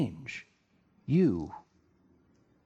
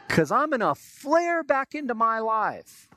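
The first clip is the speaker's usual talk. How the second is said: laughing mockery; 8 semitones higher, 3 dB louder, slower than usual. Mocking midlife crisis.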